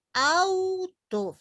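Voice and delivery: "auto" más agudo y alargado, con la U resaltada; ejemplo marcado. Shown as a demonstration. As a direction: canta "auto" alto, marcando la U. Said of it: "Fíjense". ("auto" agudo y lento, la U fuerte)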